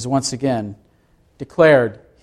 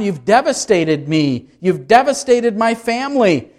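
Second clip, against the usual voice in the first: anguished cry; 6 semitones higher than usual. Acted. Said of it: "to cry out to God".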